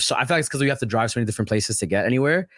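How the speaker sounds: fast, rambling explanation; talking really fast. Real, not acted. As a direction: rattle it off quickly. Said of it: "I'm talking really fast".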